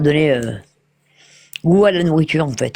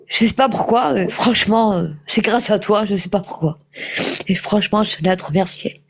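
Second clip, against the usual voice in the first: crying on the phone; 3 semitones higher than usual. Real, not acted. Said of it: "Mais vous pleurez?".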